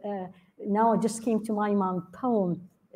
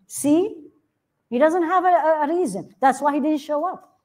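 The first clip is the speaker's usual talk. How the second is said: gloating mock; 5 semitones higher than usual. Disbelievers gloat at absent imam.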